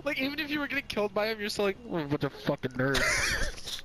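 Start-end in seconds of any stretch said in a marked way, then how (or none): 1.9-3.8 slow, whispered contemptuous sneer; scornful whisper. Pretend. Gamer sneering at the players killing him, whispered. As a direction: dismiss them under your breath.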